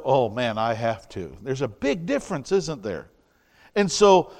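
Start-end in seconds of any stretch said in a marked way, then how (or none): 0.0-1.4 lower, sighing mock grumble; grudging complaint. Preacher voicing a grudging servant, lower and mildly grumbling. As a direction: drag it out as a reluctant chore. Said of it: "instead of".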